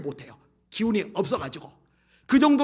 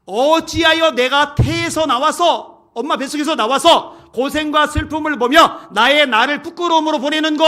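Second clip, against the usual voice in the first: anguished lament; 7 semitones higher, 8 dB louder than usual. Acted. Preacher voicing a sufferer who curses being born, anguished lament. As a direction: wail the verse out in acted anguish. Acts out lament cursing birth.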